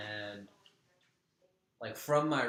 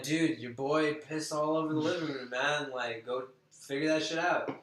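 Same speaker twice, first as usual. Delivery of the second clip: louder, higher, insistent complaint to a bro; retold exasperation; 4 semitones higher, 6 dB louder than usual. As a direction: order the roommate to deal with it. Acting out his complaint to roommate.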